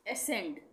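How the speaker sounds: एसेंड with a plain S, ending in D; silent C, final D. Shown as a demonstration. Teacher showing the second word, एसेंड ending in D. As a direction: say एसेंड as "a-send". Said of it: "यहाँ डी आ गया".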